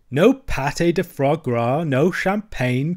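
slow, teasing mock lament; grinning. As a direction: savour the joke with a grin.

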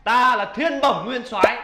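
slow, stately proclamation; grand self-introduction. Acted. Deity revealing his title to mortals, grand self-introduction. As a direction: draw out the title proudly.

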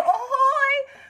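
very high, loud sing-song "Ahoy!"; mock calling out. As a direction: ham up the clueless lady's call. Mocking the neighbor again.

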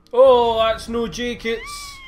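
slow, high, shouted horror; terrified horror victim. Real, not acted. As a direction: yell in fright at the closet. Finds a body in the closet.

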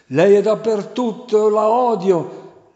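high, loud whining devil; wailing demon. A narrator's reading. Devil wailing that her silence torments him, high and loud. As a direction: whimper and shriek like a tormented demon. Devil voiced in exorcism tale.

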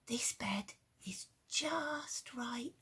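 sleepy whisper through a yawn. Acted. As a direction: breathe it out mid-yawn, slow. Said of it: "yawned the bear".

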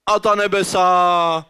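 very slow, stretched exclamation; drawn-out awe. Acted. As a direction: draw the words out in mock wonder at the view. Marvelling at view from cable car.

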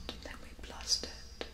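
slow, whispered resolve; hushed plan. Acted. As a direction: keep it low so it won't hear. Hushed planning of the hunt.

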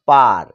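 পার with a long vowel, pitch falling; long-sound পার. Shown as a demonstration. Teacher showing learners the long sound, পার with held vowel. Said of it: "এটা long sound".

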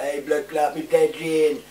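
loud, high imitation of a friend's catchphrase; mock impression, called out loudly; Green Thumb. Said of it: "I can't do all that".

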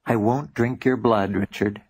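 put-on easy, friendly and unaccented; friendly vampire, no accent at all; friendly plain English. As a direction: drop the menace, just be pleasant. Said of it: "in perfect friendly English, no accent at all".

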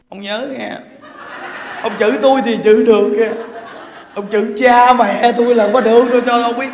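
loud, fast, laughing mock scolding of the husband; angry wife. Wife yelling at her husband over her parents, laughing. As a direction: snap back at him with a laugh.

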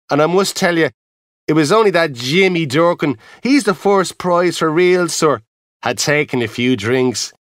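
a lightly voiced proud Irish lad; proud porter. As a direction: talk him up warmly. Boy praises sister's fiancé.

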